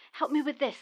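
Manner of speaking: breathy whispered request with sigh. Acted. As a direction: strain and whisper it. Sighing, struggling with hatch.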